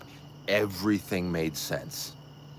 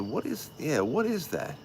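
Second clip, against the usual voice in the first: higher-pitched, baffled question; puzzled disbelief; 8 semitones higher than usual. Retold or imitated. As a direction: re-enact your bewilderment, pitch jumping up. Retells his own puzzled reaction.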